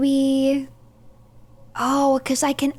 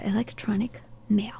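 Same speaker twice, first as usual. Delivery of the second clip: soft whisper reading aloud; 6 dB quieter than usual. Real, not acted. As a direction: whisper it to yourself.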